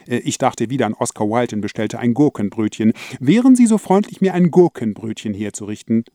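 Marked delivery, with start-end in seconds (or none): 3.2-6.0 formal polite order. Acted.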